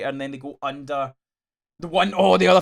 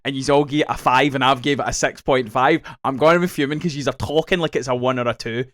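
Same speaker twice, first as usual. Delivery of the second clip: worked-up rant, a touch louder; getting irate; 5 dB louder than usual. Real, not acted. Irate rant, real but controlled. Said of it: "this is where I'm getting irate".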